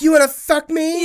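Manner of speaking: high, breathy come-on voice; sultry ad voice. Retold or imitated. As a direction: purr it like a cam ad. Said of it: "where she's like".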